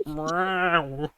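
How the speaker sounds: playful roar. Acted. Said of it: "it's just the Ocelot".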